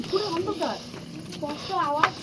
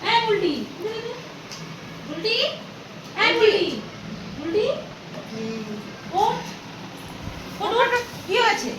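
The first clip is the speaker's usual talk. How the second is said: urgent calling; 5 semitones higher than usual. Acted. Waking the fainted girl.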